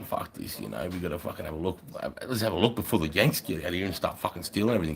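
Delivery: hushed, breathy plotting whisper; conspiratorial whisper. Retold or imitated. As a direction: whisper it like you're sneaking off. Sneaky plan retold to mate.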